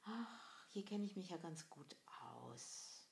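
softly sighed acted thought; comfortable inner musing. Doubter settling back into the comfort zone, softly musing. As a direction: sigh it lightly to yourself, softly. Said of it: "sitzt da und denkst".

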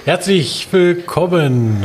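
talking with a mouthful; greeting through a bite of food; mouth full. Real, not acted. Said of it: "mit vollem Mund spricht man nicht".

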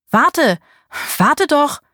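lauter, hoher Zuruf; hinterherrufen, verspielt; rufend. Acted. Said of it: "Eine melodische Männerstimme". (ein Mann ruft einer Frau hinter der Düne nach, laut und hoch)

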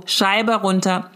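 Scheibe runter drawn out word by word; slow, insistent order at the car window; slow demanding command. Shown as a demonstration. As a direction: spell out each word of the order slowly.

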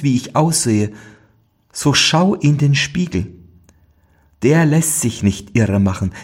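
a hint of a cursed princess, pleading; sorrowful princess. Princess explains her curse.

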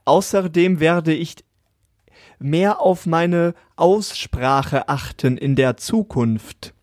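put-on slow, carefully enunciated like an old movie; every consonant crisp, like 1950s radio; old film elocution. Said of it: "So klangst du gerade ein bisschen".

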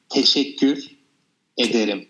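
teşekkür ederim said slowly, syllable by syllable, teşekkür rising; slow Turkish teaching. Shown as a demonstration. Teacher slowly models Turkish thanks for learner. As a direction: break teşekkür ederim into slow clear parts. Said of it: "let's start with thank you".

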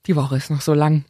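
groggy, slow hungover voice; dragging the words, still hungover. Real, not acted. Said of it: "ich bin so verkatert".

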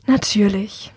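sighing it out on a breath; sighed. Acted. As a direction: let the word sink into a weary sigh. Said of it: "Hamish seufzt".

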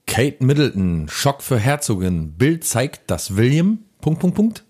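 slow dramatic headline voice; tabloid headline read. Acted.

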